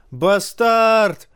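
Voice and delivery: high, loud yell; crowd yelling. A narrator's reading. Crowd yells at the king, high and loud. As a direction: yell the insult. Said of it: "вопили голоса".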